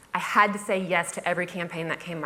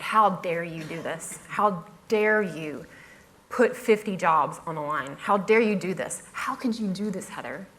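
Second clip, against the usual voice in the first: retold scolding. Boss scolding blogger like a child, imitated and restrained. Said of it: "scolded me like a child".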